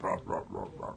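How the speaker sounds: low, soft creature chuckle; imitated Predator laughing. Host imagines Predators laughing before a kiss, soft creature noise. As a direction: quietly mimic a monster's laugh. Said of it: "laughing when they're coming in for the kiss".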